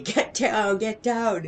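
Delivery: high, loud retold yell of alarm; imitated scream. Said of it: "got up and started screaming".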